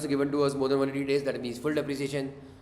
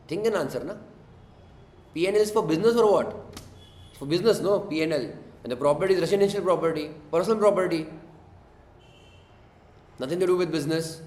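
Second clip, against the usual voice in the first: exasperated; 4 semitones higher than usual. Real, not acted. Teacher exasperated at wrong answers.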